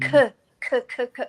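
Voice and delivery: teacher's short repeated k sounds; sounding out letters. Retold or imitated.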